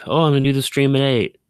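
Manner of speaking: high, fast, carefree excuses; mock your own casual delays; breezy self-mockery.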